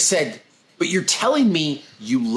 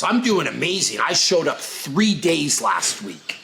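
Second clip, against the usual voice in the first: smug, slow little brag; mock proud boast. Trainer mimicking a client's proud brag, smug. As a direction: imitate a proud client bragging. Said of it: "how many times have you heard this".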